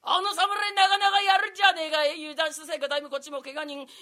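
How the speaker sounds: a lightly voiced talking wolf. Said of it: "狼でございます".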